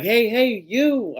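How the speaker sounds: loud, high call across the park. Retold or imitated. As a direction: hail a kid from a distance. Calling out to a stranger in the park.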